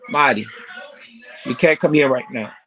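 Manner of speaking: firm call across the room. Real, not acted. Calling out to child mid-talk.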